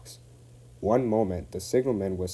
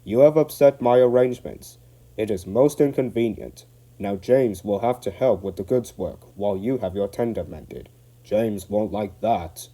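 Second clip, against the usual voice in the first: indignant; 6 dB louder than usual. Acted.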